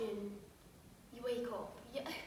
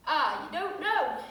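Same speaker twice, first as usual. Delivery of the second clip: louder, slow, with a laugh in it; mocking policeman; 5 dB louder, slower than usual. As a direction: cop laughing at your ignorance. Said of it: "And he's like".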